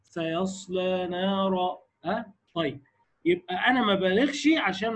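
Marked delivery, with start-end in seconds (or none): 0.0-1.8 slow, joined سيصلى نارا with a clear ص; connected hams. Shown as a demonstration. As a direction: link سيصلى straight into نارا, keeping the ص airy. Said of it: "هات على طول بقى". (سيصلى نارا موصولة مع همس الصاد)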